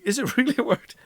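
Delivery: high squeaky voice; mock a sceptical learner, voice way up; imitating doubting viewer. Teacher mimicking a doubtful viewer, high-pitched. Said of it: "those of you thinking".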